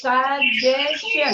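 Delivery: suggestion drawn out slowly with a clear j sound; slow, exaggerated suggestion for the class to repeat; slow model word. Shown as a demonstration. Teacher asks class to repeat, slow modelling. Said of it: "Ayo, ulangi saya".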